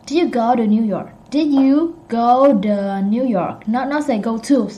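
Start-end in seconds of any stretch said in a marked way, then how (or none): 0.0-3.7 "to" weakened to a soft duh; soft American "to". Shown as a demonstration. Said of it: "It's soft".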